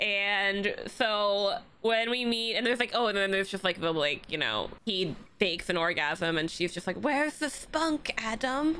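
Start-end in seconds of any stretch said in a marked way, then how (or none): 7.0-8.8 slow, high, drawn-out put-on British accent. Describing a series' opening scene, quoting her line to adam, in her accent. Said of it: "Everything in this accent".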